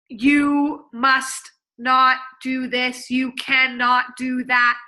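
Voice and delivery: slow, stiff rule-reading voice; stiff robot speak. Shown as a demonstration. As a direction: read it like a rigid rulebook. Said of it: "Or it's".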